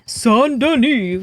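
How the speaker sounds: high, slow, grand declaration; excited announcement. Shown as a demonstration. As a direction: proclaim Saint Denis like a herald.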